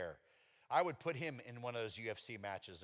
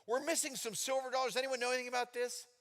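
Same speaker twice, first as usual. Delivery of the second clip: dad questioning; 11 semitones higher than usual. Retold or imitated. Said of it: "He's like".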